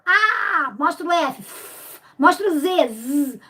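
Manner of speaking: put-on letters A, F and Z sounded out for the kids; letter sounds demo. Shown as a demonstration. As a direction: sound each letter the way the children would. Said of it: "eles vão falando o som". (som das letras A, F e Z pronunciado para as crianças)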